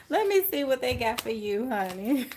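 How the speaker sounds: chuckling through the words; laughing. Real, not acted. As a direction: talk while still laughing, honey. Laughing while reading cards.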